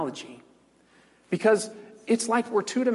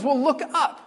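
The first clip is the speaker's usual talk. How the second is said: patient creature voice; 9 semitones higher, 3 dB louder than usual. Retold or imitated. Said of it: "And he says".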